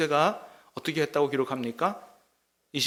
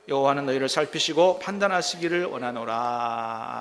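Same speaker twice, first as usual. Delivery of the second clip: louder, measured Bible reading voice; scripture reading; 4 dB louder than usual. Acted. Pastor reading scripture to the congregation, formal and measured. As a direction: read the verse out to the congregation.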